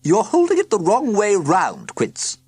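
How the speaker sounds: loud, high aunt's hiss. A narrator's reading. Aunt correcting Quincy in a loud mock hiss. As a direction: snap the correction at him. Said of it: "hissed Aunt Perdita".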